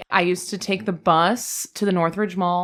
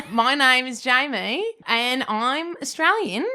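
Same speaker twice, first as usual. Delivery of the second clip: slow, halting Australian accent; a shy try at an Australian accent; bad Australian accent; 3 semitones higher, slower than usual. Shown as a demonstration. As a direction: attempt an Australian accent, badly. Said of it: "okay, well, it's bad".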